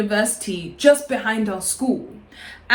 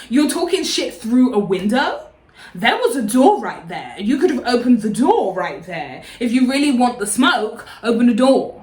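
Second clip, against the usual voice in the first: retold telling-off, punched key words; mildly indignant scolding. Scolding the girl talking through a window, mock indignant.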